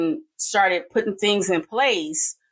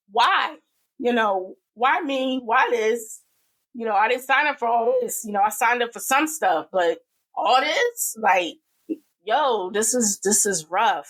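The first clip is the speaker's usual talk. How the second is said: higher, pleading why me; crying out to God; 4 semitones higher than usual. Retold or imitated. A struggling aunt asking God why, pleading. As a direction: ask heaven why, worn out and exasperated. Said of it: "you just ask God".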